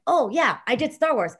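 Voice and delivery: imitating an offhand, casual reply; nonchalant. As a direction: shrug it off, mimicking a blasé friend. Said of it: "Like, it was no big deal".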